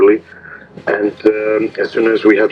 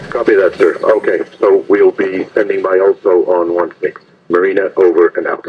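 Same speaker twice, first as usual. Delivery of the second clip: marine radio. Real, not acted.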